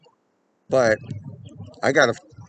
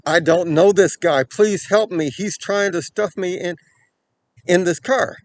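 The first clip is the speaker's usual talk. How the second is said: higher, louder retold panicked plea; scared plea; 6 semitones higher, 5 dB louder than usual. Crying girl begging a stranger to save her, imitated fear. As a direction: voice her fear without real sobbing. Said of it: "She's scared".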